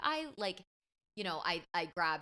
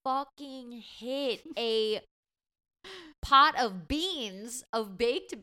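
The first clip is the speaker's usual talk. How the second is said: excited; 5 semitones higher, 7 dB louder, much slower than usual. Real, not acted. Tells of knocking over the beans.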